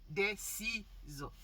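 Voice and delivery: très lent, mot par mot; détacher chaque mot lentement; au ralenti. Real, not acted. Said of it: "je parle au ralenti". (parole au ralenti)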